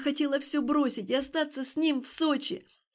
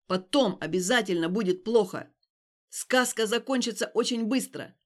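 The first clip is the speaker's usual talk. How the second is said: harsh scolding; 2 semitones lower, 3 dB louder than usual. Acted. Stas lecturing Alina harshly.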